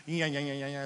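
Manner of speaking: quick, repetitive whirring "yeah-yeah" noise; imitated time machine noise. Preacher taking congregation back in time, playful machine noise. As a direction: make a soft, rapid time-travel sound effect. Mimics Wayback Machine travelling.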